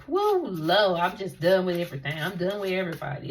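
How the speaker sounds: fast, loud, fed-up mock whine; mock apathetic whine. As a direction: act out someone sick of everything, rushed. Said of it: "apathetic attitude where you're like".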